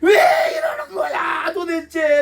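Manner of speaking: a sufferer crying to heaven about a cursed life; anguished cry. Acted. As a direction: cry out as if life has collapsed. Acted despair over twisted life.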